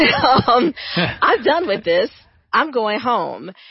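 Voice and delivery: loud, slow, play-acted haughty, lofty, superior delivery. Ignored by her husband and bonus children, retelling a haughty announcement. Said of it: "I announced very haughtily".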